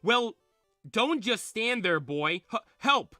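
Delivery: high, loud cry for help; acted urgent plea, punched out; calling for help. Bill grabbed, calls for help.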